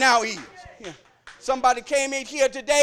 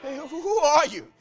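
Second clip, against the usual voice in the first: slow questioning; slower than usual. Acted. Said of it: "He said".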